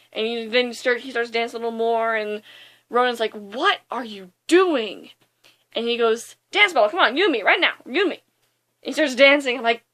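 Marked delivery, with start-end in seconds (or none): 3.3-5.1 slow, mock-baffled villain question; retold bafflement. Villain baffled by hero's dancing. 6.5-8.2 higher-pitched, mock-cocky invitation; playful dance challenge. Hero challenges villain to dance.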